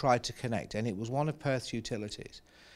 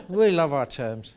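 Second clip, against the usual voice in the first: said through a chuckle; amused laugh while talking; 6 dB louder than usual. Real, not acted. Laughing at own jargon.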